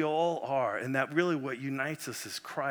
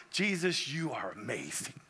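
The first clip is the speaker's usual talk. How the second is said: hushed awe; 3 semitones lower, 5 dB quieter than usual. Retold or imitated. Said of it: "You're like".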